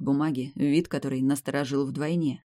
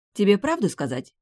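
smirking; 6 semitones higher, 4 dB louder than usual. A narrator's reading. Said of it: "хмыкнула высшая".

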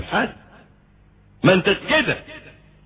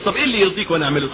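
quick, pleading wife's plea; a light mock of a tearful wife begging; imitating a crying wife; 3 semitones higher, much faster than usual. Wife pleads with angry husband, lightly imitated tearful plea. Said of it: "تفضل تبكي وتقول لك".

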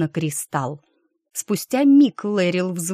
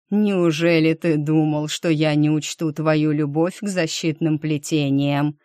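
dark lord; 2 semitones lower than usual. Acted. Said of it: "зловеще произнёс Виер".

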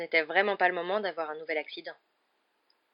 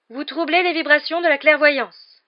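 higher, louder, slow ethereal pronouncement; Trelawney's mystic voice; 10 semitones higher, 13 dB louder, slower than usual. A narrator's reading. Professor Trelawney lecturing her divination class, in a high, slow mystic voice. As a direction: intone it like a dreamy seer. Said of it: "déclara le professeur".

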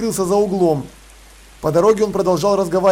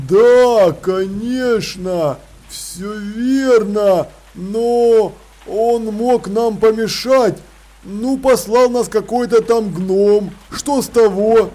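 slow troll voice; 3 semitones higher, much slower than usual. Acted. Cliff, puzzled and insistent.

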